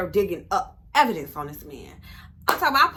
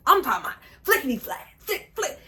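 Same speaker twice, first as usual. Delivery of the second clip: flickety flack; 5 semitones higher, faster than usual. Retold or imitated. Mimicking his fast scrolling.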